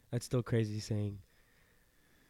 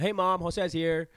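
raised, higher call to Mom; 6 semitones higher, 4 dB louder, slower than usual. Real, not acted. Letting Mom know the guest is here, calling out. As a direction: call out to someone off mic. Calls to his mother again.

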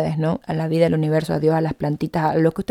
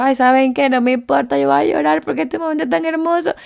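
moved, emotional; 7 semitones higher, 3 dB louder than usual. Retold or imitated. Deciding to cry, moved.

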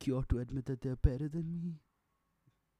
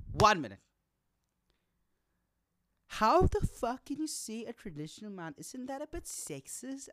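loud, high indignant protest; indignant outburst; 11 semitones higher, 6 dB louder than usual. Retold or imitated. Pushing back at the woman at the bar, loud and outraged.

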